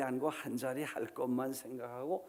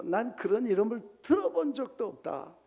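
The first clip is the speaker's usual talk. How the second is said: emphatic denial; 5 semitones higher than usual. Acted. Preacher acting Peter's denial.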